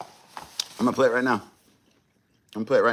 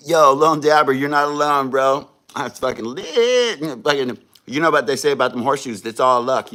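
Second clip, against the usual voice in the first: hyped shoutout; 3 semitones higher, 5 dB louder than usual. Real, not acted.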